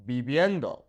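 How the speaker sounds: viviendo with both V's as a soft B; Spanish V softened to B in viviendo. Shown as a demonstration. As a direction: say viviendo like "bee-byendo". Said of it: "pronounced like a B".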